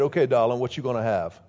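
low, lightly imitated Cajun waitress; Cajun accent. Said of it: "had this really thick Cajun accent".

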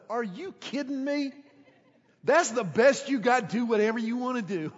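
mock the advice as too simple; incredulous inner voice. Teen privately scoffing at the pastor's advice, incredulous. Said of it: "I remember thinking to myself".

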